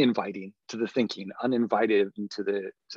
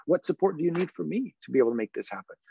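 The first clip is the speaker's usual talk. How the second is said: approachable voice; 5 semitones higher, faster than usual. Shown as a demonstration. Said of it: "I'm using that approachable voice again".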